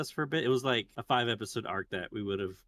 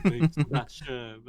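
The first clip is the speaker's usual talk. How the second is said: put-on slow, louder broken English accent; 5 dB louder than usual. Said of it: "And they do it in that broken English accent".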